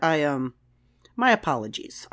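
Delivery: hesitate, then give in politely; Picard. Retold or imitated. Captain backing down after a telling-off, stammered apology. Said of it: "he stammered over all of that".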